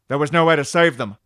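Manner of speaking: loud, defensive retort; hammed-up protest in a quarrel; defensive captain. Acted Picard and Raffi quarrel.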